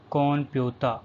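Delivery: Japanese "computer", said "kompyuta" with M before P; N pronounced as M. Shown as a demonstration. Teacher giving learners the Japanese loanword, N pronounced as M. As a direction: say "computer" the Japanese way, "kom-pyu-ta", open A ending. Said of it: "N is pronounced as M".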